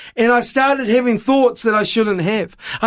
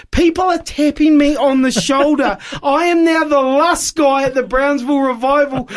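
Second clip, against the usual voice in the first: laughing embarrassed; 7 semitones higher than usual. Real, not acted.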